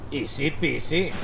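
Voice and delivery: slow, stretched singsong; drawn-out singsong. Pretend. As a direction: stretch each word out lazily. Repeated catchphrase, drawn out.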